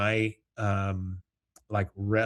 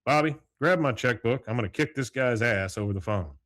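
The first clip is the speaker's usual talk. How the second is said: Hank fuming; 3 dB louder than usual. Retold or imitated. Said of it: "he goes".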